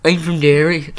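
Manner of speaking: a mock deep-voiced greeting; forcing a deep voice. Shown as a demonstration. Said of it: "put on a deep voice".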